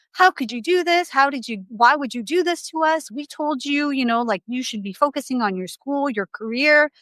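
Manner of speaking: half-hearted impression of a furious mother; mock scolding mom. Mom berates her pregnant daughter, in mock outrage.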